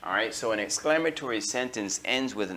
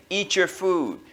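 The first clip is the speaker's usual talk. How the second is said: higher, louder commanding voice; giving orders; 6 semitones higher, 5 dB louder, slower than usual. Shown as a demonstration. Teacher demonstrating commands for the class. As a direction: order them to do it. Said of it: "You say".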